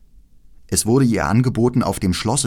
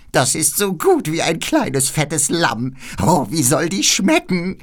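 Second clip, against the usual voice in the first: hohe, langsame Hexenstimme; genüsslich wie eine hungrige Hexe; altes Räuberweib; 8 semitones higher than usual. Acted. Räuberweib will Gerda essen. (Räuberweib begutachtet Gerda: langsame, hohe Hexenstimme)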